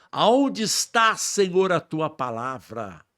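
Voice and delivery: high, slow pleading cry to God; anguished cry. Retold or imitated. Son alone in his room crying out to God, anguished and slow. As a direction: stretch it out, begging heaven for an answer.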